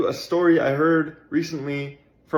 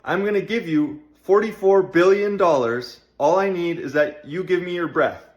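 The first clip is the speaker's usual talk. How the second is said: Elon Musk impression. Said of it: "If Elon Musk calls you on the phone and he says".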